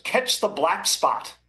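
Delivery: slow, deliberate mock-deadpan quote. Reporter quoting a player's trick for sunny fields, deadpan. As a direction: imitate a player's deadpan answer, drawn out. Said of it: "he kinda deadpanned".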